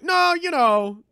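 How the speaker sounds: high, loud mock protest from a god; hammed-up Zeus shout. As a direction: yell out a hammed-up Zeus refusal. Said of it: "Zeus is just like".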